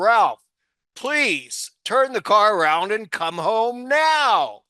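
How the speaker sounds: acted, no-nonsense, firm, steady voice. Retelling a wife's order over the car speaker: imitating wife's firm voice. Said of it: "my wife say in a firm voice".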